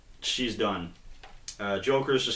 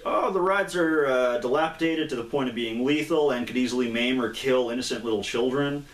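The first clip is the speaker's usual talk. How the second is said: gushing mock Joker; 2 semitones higher, 3 dB louder than usual. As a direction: list the horrors as if they were selling points. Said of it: "And the guy's like".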